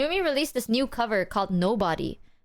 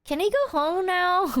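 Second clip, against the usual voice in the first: mouth-closed whisper to brother; 5 semitones higher than usual. Retold or imitated. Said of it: "how I talked to my brother".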